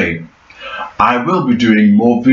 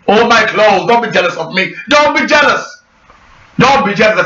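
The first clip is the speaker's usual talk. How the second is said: playful teasing; 6 semitones higher than usual. Pretend. Teasing viewers.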